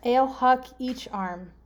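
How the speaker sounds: ale, huck, each, arm as separate words; deliberate, spaced-out gibberish clue; slow readout. Shown as a demonstration. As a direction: read it slowly, word by word. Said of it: "It's better if I read it fast".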